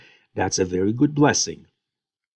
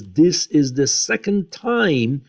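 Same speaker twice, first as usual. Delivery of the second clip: upset; 4 semitones higher, 3 dB louder than usual. Retold or imitated. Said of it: "Esau, um, is very upset".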